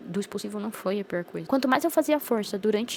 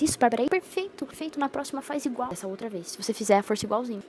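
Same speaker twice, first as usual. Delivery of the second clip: cheering praise. Retold or imitated. Doctors cheering her on.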